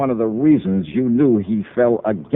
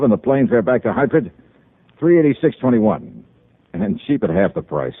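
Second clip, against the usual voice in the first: crisp radio detective wrap-up narration; hard-boiled narration. A narrator's reading. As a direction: close the case file like a private eye.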